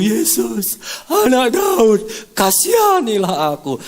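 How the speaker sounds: high, loud pleading call; crying out. Acted. Blind Bartimaeus still calling out to Jesus, loud and high. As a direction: keep calling out, undeterred. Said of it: "Dia terus berseru".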